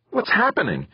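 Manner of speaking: high shouted question; shouting back. A narrator's reading. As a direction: call back up the tube. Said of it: "Angie shouted back".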